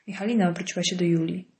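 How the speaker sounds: plain reading voice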